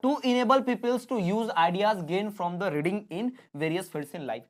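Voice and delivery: very slow, word-by-word dictation pace. Shown as a demonstration. Teacher dictating the definition to exam students, slow and deliberate. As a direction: dictate it slowly so students can write it down.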